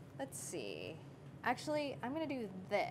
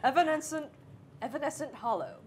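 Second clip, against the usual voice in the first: talking tree; 3 dB louder than usual. Pretend. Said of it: "This is my tree voice".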